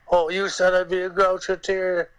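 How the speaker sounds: put-on high, whiny little boy on the edge of tears; crying like a little boy. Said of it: "he starts crying like a little boy".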